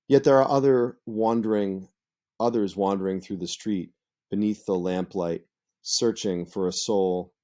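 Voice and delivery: reading the sonnet aloud with a lilt; dramatic poetry reading; poem recitation. Shown as a demonstration. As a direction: recite it like verse, line by line. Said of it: "So here's an example".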